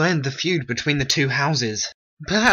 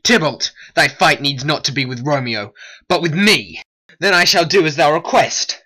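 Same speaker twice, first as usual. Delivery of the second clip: loud defiance; 5 dB louder than usual. Acted. Mercutio takes up the fight.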